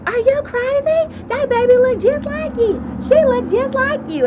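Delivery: high, loud heckling crowd; disbelieving shout from the seats; incredulous audience. Retold or imitated. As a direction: scold him like a stunned talk-show audience. Audience heckling the doubting father.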